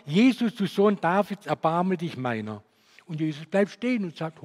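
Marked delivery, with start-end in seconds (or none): 0.1-2.6 loud pleading call, higher pitched; retold cry for help. Blind beggar calling loudly to Jesus for mercy. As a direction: call out to Jesus over the crowd. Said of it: "Und er ruft und schreit laut".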